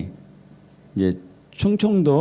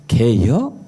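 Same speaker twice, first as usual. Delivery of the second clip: terse Chungcheong question, sharply rising; Chungcheong dialect; 4 semitones lower, much slower than usual. Retold or imitated. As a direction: imitate a Chungcheong father-in-law. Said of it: "그 말은 못 알아듣대요".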